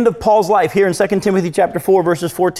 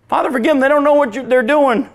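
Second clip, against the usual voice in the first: anguished plea; 7 semitones higher than usual. Acted. Preacher voices Jesus pleading.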